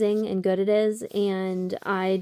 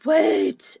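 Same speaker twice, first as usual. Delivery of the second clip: louder, higher sudden wait; 5 semitones higher, 8 dB louder than usual. Real, not acted. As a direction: stop yourself with an idea. Sudden idea.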